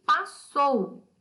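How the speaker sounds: passou very slowly, PAS and SOU apart; split into syllables. Shown as a demonstration. Teacher showing pupils how double S divides, syllable-by-syllable. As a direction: break passou into two separate, emphatic syllables. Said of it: "ficam em sílabas diferentes".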